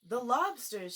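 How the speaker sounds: loud excited call; mock shout with a bound; Gryphon shouting. A narrator's reading. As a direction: shout it mid-leap. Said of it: "shouted the Gryphon".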